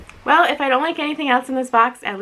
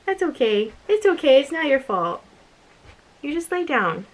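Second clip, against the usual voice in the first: soothing the dog; 3 semitones higher than usual. Real, not acted. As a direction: reassure the poor dog gently. Comforting her sick dog.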